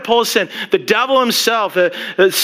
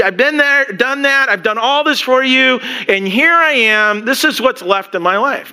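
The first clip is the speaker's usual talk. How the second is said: whining complaint; 5 semitones higher than usual. Retold or imitated. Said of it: "you're quite the whiner here".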